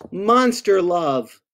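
slow, drawn-out refrain. Acted. Reader closes each verse for children, slow drawn-out refrain. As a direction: stretch each word of the refrain.

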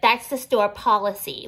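slow, put-on snooty voice; a hint of a prissy know-it-all; mocking whiny quote. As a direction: parrot them in a silly voice. Mocking viewers' likely reply.

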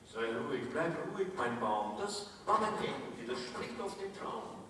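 soft, soothing parent; calm the little one down quietly; hushing father. Acted. Father hushes the frightened tree.

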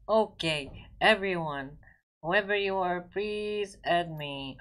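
loud call to everyone. Real, not acted. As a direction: call it out to the whole lobby. Calling out to viewers.

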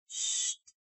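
soft, voiceless shush; soothing shush. A narrator's reading. Woman settling crying Rayan back to sleep, soothing shush. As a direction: hush a crying child gently.

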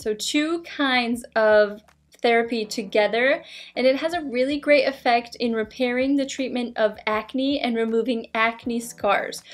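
muffled behind rigid mask; talking with mask on face; speaking through face mask. Real, not acted. Seen 3: Rigid lit mask covers whole face, mouth opening visible throughout.

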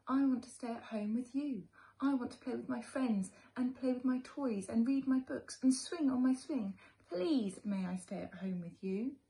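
put-on high, loud begging child; pleading little boy. Little Chester begging his mother to stay home, pleading. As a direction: beg like a small boy who won't leave. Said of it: "he told his mother".

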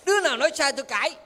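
mock quarrel, quick and high; argumentative. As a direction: fire it off as a challenge. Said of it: "mai mốt cãi lộn chứ".

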